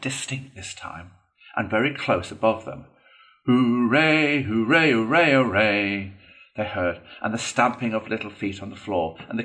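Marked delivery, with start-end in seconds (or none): 3.5-6.1 loud, drawn-out hurrahs; rousing storybook cheer; crowd cheering. A narrator's reading. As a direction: cheer like a rowdy banquet crowd. Crowd cheering behind the door.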